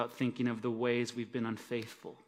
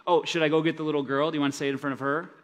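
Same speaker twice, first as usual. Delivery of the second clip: fast, louder sneering jab; sarcastic taunt; 3 semitones higher, 6 dB louder, much faster than usual. Retold or imitated. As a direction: needle him quickly and loudly. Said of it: "is he just rubbing Peter's face in his own failure".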